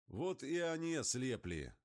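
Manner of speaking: excited high-pitched call. A narrator's reading. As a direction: call it out high over the engine. Pilot calling out in flight.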